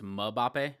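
"Mbappe" said as muh-BAH-pay; Charles Barkley pronunciation. Shown as a demonstration. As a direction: sound out a vowel after the M in "Mbappe". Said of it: "you have to pronounce it like, uh, Charles Barkley".

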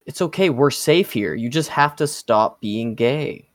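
Lori. Acted. Lori calling Rick in his delusions, mock reassurance. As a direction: coax gently, in a put-on voice. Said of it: "Lori calls him".

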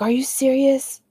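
high-pitched incredulous question; imitated disbelief, high; imitated shock. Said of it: "he was so shocked".

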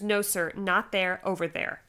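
imitated curt correction, mildly bossy; bossy, not nice. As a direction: order him about like a bossy anesthesiologist. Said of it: "that's her tone".

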